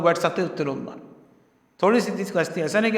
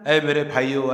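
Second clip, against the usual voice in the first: tender address; 4 semitones lower than usual. Shown as a demonstration. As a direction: say اے میرے بھائیو with deep sympathy. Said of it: "بہت ہمدردی سے، بڑی محبت سے".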